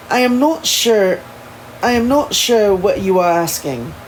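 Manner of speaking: put-on amateur proper English accent; formal, careful attempt at an English accent; a rough go at proper English. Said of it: "my really shitty English accent".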